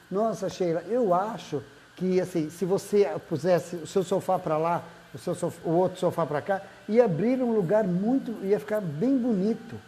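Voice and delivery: gentle constructive suggestion, lightly acted; crítica construtiva. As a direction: offer it tactfully, lifting slightly toward the end. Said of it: "É uma crítica construtiva". (crítica construtiva, sugestão gentil)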